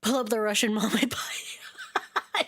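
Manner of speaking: slow whispered aside. Real, not acted. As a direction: murmur it under your breath.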